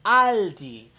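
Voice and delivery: "Aldi" said the German way, open ah vowel; German pronunciation. Shown as a demonstration. Vlogger teaching viewers the store's name, German pronunciation. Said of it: "German pronunciation".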